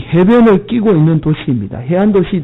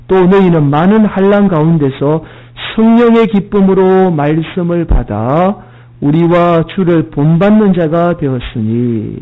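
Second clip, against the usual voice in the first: scripture reading. Acted. Preacher reading the verse to his congregation, lightly intoned.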